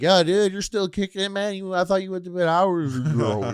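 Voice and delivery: high-pitched amazed dude voice; mock a surprised party bro; festival partier. Partiers greet the man still up, high mock-amazed voice. Voicing people who greet him.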